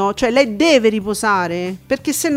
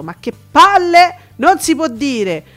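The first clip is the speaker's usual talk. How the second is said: loud, high scandalised exclaim; indignant outburst; 4 semitones higher, 5 dB louder than usual. Retold or imitated. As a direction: spit it out, outraged. Indignant quote of insult.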